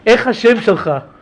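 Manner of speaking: lightly put-on Israeli Hebrew; a hint of a wannabe Israeli; fake Israeli accent. Yeshiva guy faking Israeli, mild Israeli accent. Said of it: "liked to pretend like he was Israeli".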